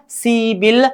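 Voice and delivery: सीबिल run together, p turned into b; सीबिल as one linked word, see-bil; linked pronunciation. Shown as a demonstration. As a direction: say सीबिल joined, with a b sound. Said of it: "ग्यारह को बोलेंगे".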